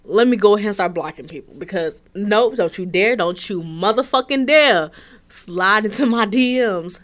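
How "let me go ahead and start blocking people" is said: laughing through a mock "what the fuck"; half laugh, then hurry on faster; laughing at the fortune, then rushing; laughing disbelief. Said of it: "So I was just like".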